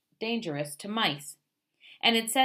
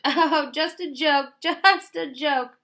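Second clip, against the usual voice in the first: high, loud, slow chortle; the fox chortles high and loud to the dentist, laughing off the trick; chortling; 9 semitones higher, 9 dB louder, slower than usual. A narrator's reading. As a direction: chuckle it off as a joke. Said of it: "he chortled".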